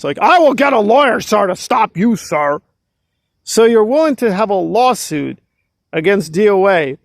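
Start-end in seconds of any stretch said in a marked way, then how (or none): 0.2-2.6 mock seriousness. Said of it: "let's say she's serious".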